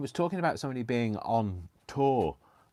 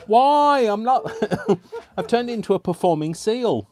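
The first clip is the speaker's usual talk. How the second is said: high, loud, giggly protest; helplessly amused, raised voice; laughing disbelief; 11 semitones higher, 7 dB louder than usual. Real, not acted. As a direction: wail it through laughter. Laughing at own silly performance.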